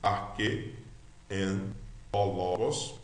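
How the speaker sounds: slow, word-by-word model reading; slow read-along. Shown as a demonstration. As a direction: read it slowly for learners to follow. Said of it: "devagar comigo".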